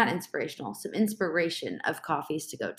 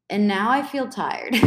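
laughing; 4 dB louder than usual. Real, not acted. Laughing at own tiredness.

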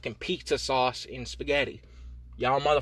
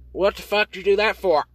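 accusing yell; 7 semitones higher, 8 dB louder than usual. Acted. Imagined accuser yelling at him.

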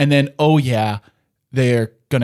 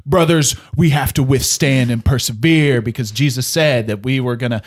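louder, urgent exhortation to the brothers; Peter's rallying call; 5 dB louder than usual. Retold or imitated. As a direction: rouse the brothers to hold firm. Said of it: "Peter, on the other hand, is like".

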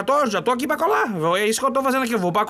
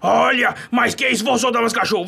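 indignant shout; 2 semitones higher than usual. Acted. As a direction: stop the fight with a booming demand. Boss arrives at the brawl.

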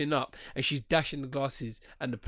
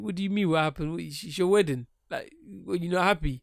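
higher-pitched innocent bafflement; puzzled deflection; 3 semitones higher, faster than usual. Acted. Dad confronted by his son, puzzled innocence. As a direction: play innocent, pitched up a little.

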